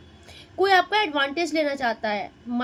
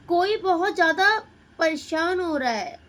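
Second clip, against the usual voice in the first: ऊँची, तेज़ आवाज़ में ज़ोर देकर; किसी की परेशानी को ज़ोर से बताइए; उत्तेजित ज़ोर; 3 semitones higher, 3 dB louder than usual. Acted. Reader sees someone very upset. (कार्ड देखकर ज़ोर से बताती पाठिका, उत्तेजित)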